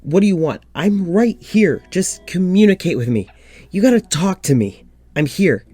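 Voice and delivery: frustrated, drawn-out calling to an unseen presence; exasperated pleading. Acted. Pleading with the poltergeist.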